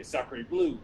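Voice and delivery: a high, rising French Sacre Bleu; French accent. Acted. Frenchman exclaiming to his angel in a high French accent. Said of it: "I love your accent".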